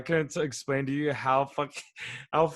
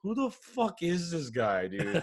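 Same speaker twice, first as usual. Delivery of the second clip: laughing; 3 semitones higher, slower than usual. Retold or imitated. Laughing retelling of reaction.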